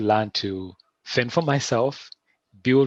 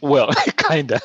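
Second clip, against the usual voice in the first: laughs out the word, a little higher and louder; laughing; 6 semitones higher, 7 dB louder than usual. Real, not acted. Guest laughing while conceding to the host. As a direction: chuckle through a sheepish kinda.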